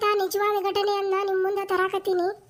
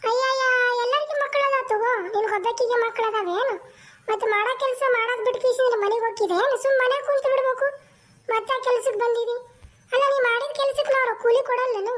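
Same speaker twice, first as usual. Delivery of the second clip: scolding landlady. Acted. Landlady refuses to let the maid go home, sharp bossy voice. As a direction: scold her for wanting to leave.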